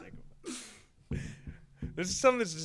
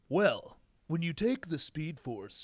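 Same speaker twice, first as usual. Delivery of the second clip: slow, lightly stonerish drawl; a hint of his friend, slowed right down; impression of co-host; 3 dB quieter, much slower than usual. Answering back with an impression of his friend, slow and lazy. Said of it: "my impression of your voice".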